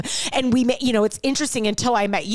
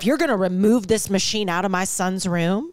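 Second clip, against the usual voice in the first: deliberate mock ultimatum, slowing at the end; acted standoff; 3 semitones lower than usual. Acting out a mother guarding her son's room, firm standoff. And scene.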